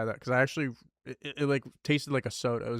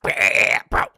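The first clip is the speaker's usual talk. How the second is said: mock whispered bro; 6 semitones lower, 11 dB louder than usual. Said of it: "and he went".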